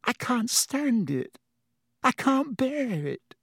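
high, slow, hushed anguish; distressed whisper. A narrator's reading. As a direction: drag the words out as if unable to bear it. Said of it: "Hermione whispered".

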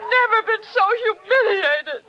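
choked-up indignant matron; tearful, offended. Acted. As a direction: near tears, wounded pride. Humiliated mother-in-law near tears.

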